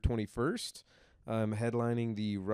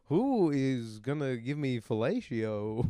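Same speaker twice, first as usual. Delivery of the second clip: Walken impression. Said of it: "Christopher Walken walking into a room going".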